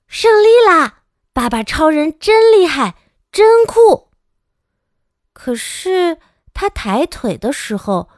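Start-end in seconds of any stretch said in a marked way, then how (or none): 0.1-4.1 very high, loud joyful cheer; child cheering wildly for dad. Acted. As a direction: cheer like a thrilled kid. Child cheers the hero's win.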